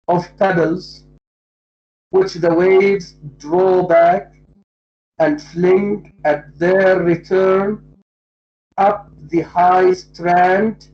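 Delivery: measured recital of the verse lines; poem reading. Shown as a demonstration. Teacher reciting the poem's lines to students, measured. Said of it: "that's why he says".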